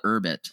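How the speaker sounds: "Urbit" said as UR-bit; pronunciation of Urbit. Shown as a demonstration. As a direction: say "Urbit" starting with "ur", no y sound. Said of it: "that's how they pronounce it".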